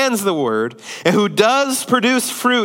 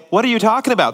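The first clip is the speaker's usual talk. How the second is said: higher-pitched mock bewilderment; acted-out challenge from confused listeners; baffled protest; 5 semitones higher, much faster than usual. Disciples questioning Jesus about the parable, baffled.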